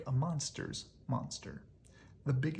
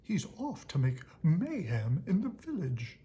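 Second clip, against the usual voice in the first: gleeful loud imp; 4 semitones higher, 5 dB louder than usual. Acted. Grump gloating about mayhem.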